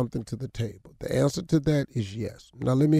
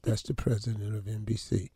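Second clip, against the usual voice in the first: through gritted teeth; 5 semitones lower, 5 dB quieter than usual. Retold or imitated. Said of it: "she be behind me all the time".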